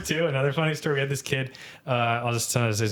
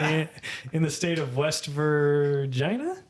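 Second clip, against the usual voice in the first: inquisitive; 3 semitones higher, slower than usual. Retold or imitated. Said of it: "He just said it like an inquisitive way".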